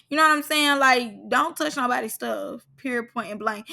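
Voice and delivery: ordinary talk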